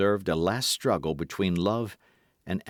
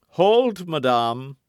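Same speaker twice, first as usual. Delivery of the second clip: a louder, higher call to stop; firm halt; 8 semitones higher, 7 dB louder, much slower than usual. A narrator's reading. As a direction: cut her off sharply. Porthos cuts her off.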